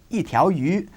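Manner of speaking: yi in yi bei cha falling sharply, fourth tone. Shown as a demonstration. Teacher demonstrating to learners, yi falling. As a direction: drop yi hard in yi bei cha. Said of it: "fourth tone".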